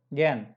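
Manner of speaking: ज्ञान as one syllable "gayn", long vowel, no "h"; silent H. Shown as a demonstration. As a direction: model ज्ञान as German "gehn", the H unsounded. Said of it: "तो ये गेह नहीं बोला जाएगा". (ज्ञान को "गेन" बोलें, ह के बिना)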